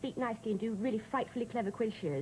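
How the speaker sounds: nicely spoken upper-class English; sent-up posh English accent. Shown as a demonstration. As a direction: speak frightfully posh English, as mother wants. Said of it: "like me to speak nicely".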